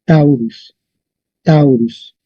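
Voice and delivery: "Taurus" with the force on the first syllable; stress on TAU. Shown as a demonstration. Teacher shows where the force is, stressed first syllable in "Taurus". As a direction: hit the diphthong "Tau" in "Taurus", let "rus" fall. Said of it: "Y la fuerza está aquí".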